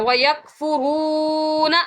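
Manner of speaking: وَيَكْفُرُونَ with a long drawn oo; يَكْفُرُونَ held two beats; recited slowly. Shown as a demonstration. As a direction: recite وَيَكْفُرُونَ with a full madd. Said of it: "اسے کھینچنا ہے".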